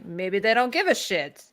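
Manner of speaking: slow, badly faked Spanish accent; terrible Spanish accent. Quoting what Rodriguez would say, in a terrible Spanish accent. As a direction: put on a weak Spanish accent, taking it slowly. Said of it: "that's a terrible Spanish accent".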